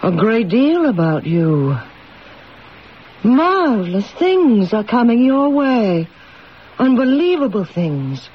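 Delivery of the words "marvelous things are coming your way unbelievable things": fortune teller. Acted. Fortune teller predicting, swelling then whispered.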